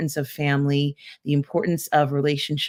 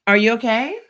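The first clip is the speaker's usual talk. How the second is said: raised, higher call across the house; calling out to mom; 7 semitones higher, 7 dB louder than usual. Real, not acted. Host calls out to frightened mom off-mic, loud and worried. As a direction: call out to check she's alright. Mom upset again offscreen.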